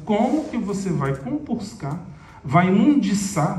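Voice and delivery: drawn-out, disdainful brush-off; slow disgusted scorn. Retold or imitated. Pedro sneering at the drunk begging for help, slow disgusted scorn. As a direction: slowly look down on the drunk at the door. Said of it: "Pedro fala assim".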